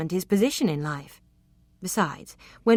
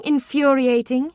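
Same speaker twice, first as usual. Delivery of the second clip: louder, slower, exasperated; building emphasis; 8 semitones higher, 8 dB louder, slower than usual. Acted. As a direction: build to the last word. Building list ends.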